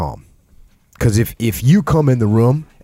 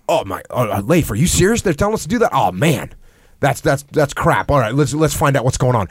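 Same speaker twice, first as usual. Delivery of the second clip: diminished reflection. Shown as a demonstration. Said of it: "diminished reflection of the emotion".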